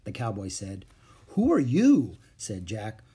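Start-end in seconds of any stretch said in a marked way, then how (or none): 1.3-2.2 put-on high, louder boy's question; boy demanding a name. A narrator's reading. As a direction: pitch up on a child's challenge to a stranger.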